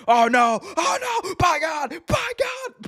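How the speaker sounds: very high, horrified shrieking call; Jim Ross scream. Retold or imitated. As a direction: lose it as the move lands. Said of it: "and he's like".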